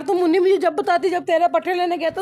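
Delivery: half-playful reprimand of a pet; scolding the goat. Real, not acted. Telling off the goat Munni.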